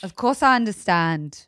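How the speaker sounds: put-on British English; standard British accent. Shown as a demonstration. Host's accent attempt lands as standard British. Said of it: "that was standard British".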